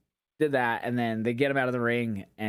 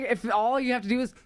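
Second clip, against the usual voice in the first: much higher, exasperated disbelief; incredulous outrage; 13 semitones higher than usual. Retold or imitated. Ranting about wrestling security, high incredulous outrage. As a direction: throw it up high like you can't believe it. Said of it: "I was like".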